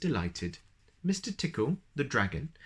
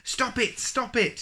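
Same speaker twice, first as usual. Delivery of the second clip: much higher begging through tickles; crying out while tickled; 13 semitones higher, 3 dB louder than usual. Acted. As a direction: squeal for it to stop. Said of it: "he cried".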